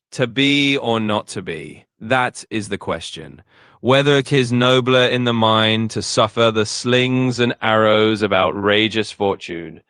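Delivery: slow, measured theatrical Hamlet; dramatic stage reading. Shown as a demonstration. AI asked to crank up the drama, reads Hamlet slowly. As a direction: stretch each line like a stage actor. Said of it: "turn up the theatrical dial this time".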